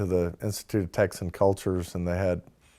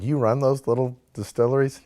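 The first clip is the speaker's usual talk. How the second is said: retold disbelief, pitched higher; amazed question; 5 semitones higher, 3 dB louder than usual. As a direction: ask it as if you can't believe it.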